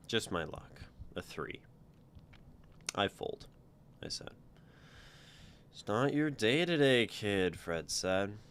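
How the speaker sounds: steady read-aloud narration with voiced lines; storyteller voice for a first-person tale; story reading. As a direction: read your story out to the group. Author reads own story aloud.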